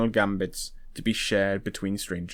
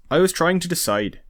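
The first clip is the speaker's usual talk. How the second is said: drawled; 7 semitones higher, 3 dB louder than usual. A narrator's reading. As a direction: draw it out in mock deliberation. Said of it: "Ednevid drawled".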